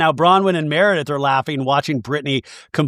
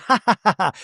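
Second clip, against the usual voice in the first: laughing; 4 semitones higher, faster than usual. Retold or imitated. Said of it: "And now Heather's laughing".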